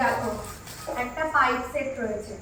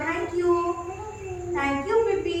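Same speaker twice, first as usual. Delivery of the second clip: put-on modelling thanks for a child; 4 semitones higher, much slower than usual. Shown as a demonstration. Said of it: "বোতলটা বলে দাও".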